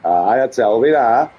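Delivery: daft, hammed-up Yorkshire; put-on Yorkshire accent. Streamer offering a lad Burger King, put-on Yorkshire accent. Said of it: "this daft Yorkshire accent he goes into".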